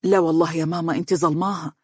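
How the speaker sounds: understated firm assurance; insistent. Acted. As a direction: gently insist to your mother. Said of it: "وقال مؤكدا".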